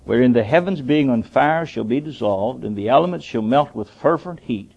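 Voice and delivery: measured, declaiming Bible reading; scripture reading. Acted. Preacher reading scripture to his congregation, declaiming. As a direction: read the verse out to the church.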